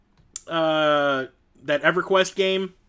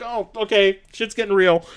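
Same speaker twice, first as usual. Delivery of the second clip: laughing, raised voice; amused mock awe; 5 semitones higher, 6 dB louder than usual. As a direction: chuckle that things got serious. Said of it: "And I was just like".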